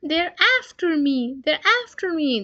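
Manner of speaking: high, loud, frantic cries; terrified child shouting; panicked boy. Acted. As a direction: run in shouting in terror. Brother fleeing nightmare.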